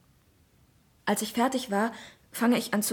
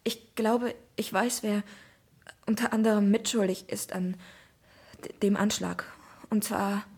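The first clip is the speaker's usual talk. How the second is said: halting speech. Acted. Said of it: "Da füge ich noch stockend hinzu".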